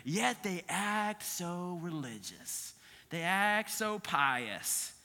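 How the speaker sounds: slow, soft scornful quote; a hint of an upset God; disgusted God. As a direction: sneer at their show of piety. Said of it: "He says that".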